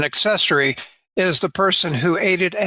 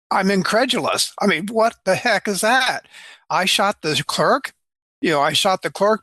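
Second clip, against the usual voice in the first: incredulous; 2 semitones higher than usual. Retold or imitated. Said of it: "the inflection was".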